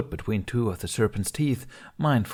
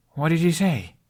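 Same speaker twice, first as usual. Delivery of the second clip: higher, louder insistent question; demanding; 9 semitones higher, 5 dB louder than usual. A narrator's reading. Hiccup insists Toothless translate, demanding and louder. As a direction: demand an answer, stress on he. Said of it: "the boy demanded".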